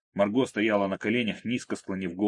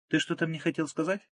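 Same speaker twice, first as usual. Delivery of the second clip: lightly voiced young woman, sweet and teasing; a higher, coaxing girlfriend voice; girl calling her boyfriend; Margo on the phone; 8 semitones higher than usual. A narrator's reading.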